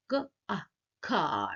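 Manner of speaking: "K" and "A" sounded apart, then "car" whole. Shown as a demonstration. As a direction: split "car" into its sounds, then join them. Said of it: "diacritic form क्या लिखने का".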